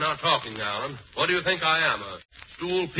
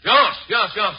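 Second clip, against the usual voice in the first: panicked giving in; 3 dB louder than usual. Acted. Giving in under threat.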